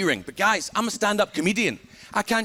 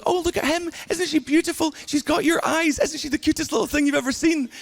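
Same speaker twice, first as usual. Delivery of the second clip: put-on high, sing-song baby cooing; cooing relatives; 9 semitones higher than usual. Relatives cooing over the new baby, high and gushing. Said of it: "everyone's gonna be going".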